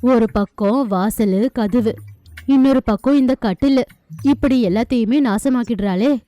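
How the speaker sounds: exasperated groan. Acted. Husband groans about wife breaking things.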